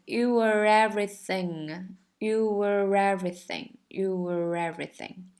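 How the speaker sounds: YOU WERE EVERYTHING run together; linked words. Shown as a demonstration. Teacher showing students linking, "You were everything" joined up. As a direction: link "You were everything" as one smooth word. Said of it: "这个地方也是各种连".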